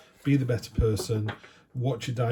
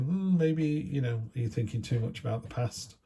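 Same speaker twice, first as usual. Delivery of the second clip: doubtful musing; 3 semitones higher than usual. Acted. Other people questioning dwelling on the past, doubtful musing. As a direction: voice someone gently doubting, pitched up at first.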